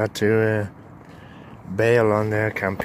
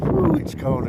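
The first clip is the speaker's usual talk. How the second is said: cold shock. Real, not acted. Stepping out into cold air.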